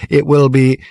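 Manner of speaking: high, stilted sing-song recorded voice; speaking clock. Acted. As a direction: sing the time like an old talking clock. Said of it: "stilted sing-song voice".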